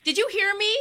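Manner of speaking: entitled Karen. Acted. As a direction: play the outraged customer. Prank caller demanding refund.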